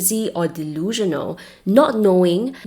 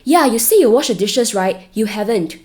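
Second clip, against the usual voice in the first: passive-aggressive; 3 semitones higher, 4 dB louder than usual. Acted. Acted passive-aggressive partner quote.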